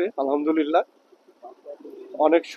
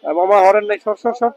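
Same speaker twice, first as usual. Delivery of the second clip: calling out; 3 semitones higher, 4 dB louder than usual. Real, not acted. Yelling at people to move.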